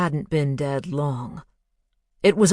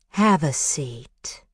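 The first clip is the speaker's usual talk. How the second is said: warm comforting woman; slower than usual. A narrator's reading. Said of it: "synthesized voice of a woman, warm and comforting".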